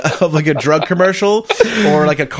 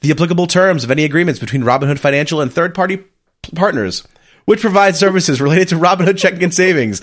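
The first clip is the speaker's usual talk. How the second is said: rapid legal disclaimer read; radio voice. Shown as a demonstration. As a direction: rattle off the fine print like a radio ad. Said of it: "my best radio voice".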